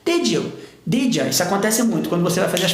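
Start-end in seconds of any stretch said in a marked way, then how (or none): 0.0-0.5 "Did you" linked into a J sound. Shown as a demonstration. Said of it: "som do J". 0.9-1.3 "Did ya" linked with J, ending in A; reduced "Did ya". Shown as a demonstration. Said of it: "som do J".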